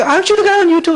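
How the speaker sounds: high excited fan voice asking; eager fan. Retold or imitated. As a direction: play the starstruck fan stopping him. Fan recognizing him at convention.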